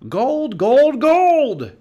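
high, loud, gloating pirate cry. A narrator's reading. Captain Bones catching the medallion, exultant cry. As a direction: build to a greedy roar. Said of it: "he cried".

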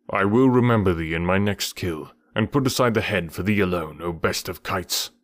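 lightly voiced grateful, solemn panther; a solemn promise, pitched slightly down; Bagheera the panther.

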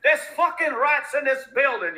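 hammed-up boss yelling over the gunfire; excited Sal. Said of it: "He's like".

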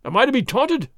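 loud, furious outburst; angry cry. A narrator's reading. Sergeant exploding at the don's taunting questions. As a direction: bellow it, fed up with the mockery. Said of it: "the big sergeant cried".

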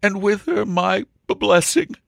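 high, halting, choked-up blessing; broken with emotion. Acted. Baronet blesses the couple, brokenly. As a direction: falter and stammer, overcome. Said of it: "he said brokenly".

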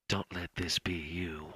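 low, soft, slow warning; grave public service line; mock PSA voiceover; PSA announcer.

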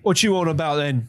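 mock English banter accent. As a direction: put on a cheeky English accent. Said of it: "English accent as such".

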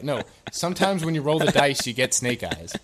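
kind, earnest encouragement; sincere. Shown as a demonstration. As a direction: say it sincerely, to cheer him up. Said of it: "if you deliver it like that".

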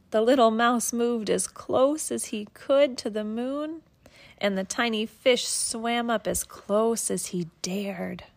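gentle bedtime story read; reading to a child. Acted. Parent reads picture book aloud.

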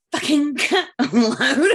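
loud, drawn-out British insult; bad British accent. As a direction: do an over-the-top British yell. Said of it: "super bad British accent".

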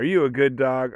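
lightly put-on voice for a dog; a touch of cooing at a pet; baby talk. Owner asking the dog, in mild baby talk. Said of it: "baby talk voice".

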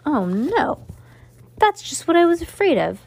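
high, strained voice of dread; the fear she had finally comes true; dismayed. Acted. Cass hears her fear confirmed, high and dismayed.

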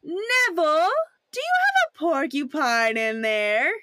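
acted motherly holler; mother yelling. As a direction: call out like a mother to another room. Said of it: "His mother yells".

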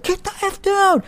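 high shouted police command; cops yelling. Retold or imitated. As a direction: yell it down the barrel of a gun. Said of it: "everything, like".

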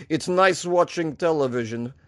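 a hint of a mock Belarusian accent; lightly imitating a Belarusian leader; mild mock Eastern European accent. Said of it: "I'd imagine it's something like that".

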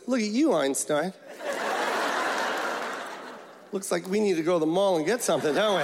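quick teasing dad, laughing; mock proud father, fast and giddy. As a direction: praise him and hint at the mall, fast. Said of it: "I go like this".

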